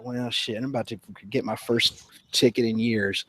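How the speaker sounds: low and very soft; muttered, resigned to trouble; resigned inner thought. Retold or imitated. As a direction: drop to a private aside. Resigned inner thought on seeing lights.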